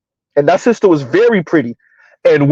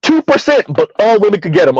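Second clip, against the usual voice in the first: high, mocking echo of her claim; mocking repeat; 4 semitones higher than usual. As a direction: sneer at the claim, pitched up.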